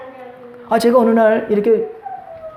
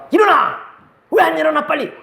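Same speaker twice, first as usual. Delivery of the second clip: higher, barked order to get up; harsh wake-up shout; 6 semitones higher than usual. Shown as a demonstration. Pastor acting the harsh parent waking the family, shouting. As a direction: yell at a sleeper to get up now. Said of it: "그 말과".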